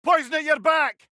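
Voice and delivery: loud, high shouted enemy warning; battle callout. Acted. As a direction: call out the threats over the din. Combat warning.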